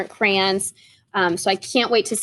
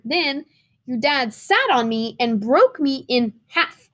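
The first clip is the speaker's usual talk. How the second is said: lightly voiced crayon; 3 semitones higher than usual. Letter read in crayon voice.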